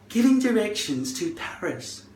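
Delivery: high-pitched assistant voice; Siri. Retold or imitated. Voice assistant mishearing the request, high artificial voice. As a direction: chirp back like a phone assistant. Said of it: "And then she'll say".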